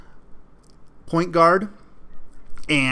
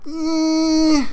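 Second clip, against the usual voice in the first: dismissive eh; 13 semitones higher, 4 dB louder than usual. Real, not acted. Dismissing nostalgic fans.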